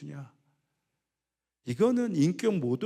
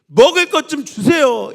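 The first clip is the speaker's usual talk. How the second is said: loud, high beggar's plea; begging shout; 10 semitones higher, 16 dB louder than usual. Acted. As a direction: cry out for food. Preacher acts out a beggar.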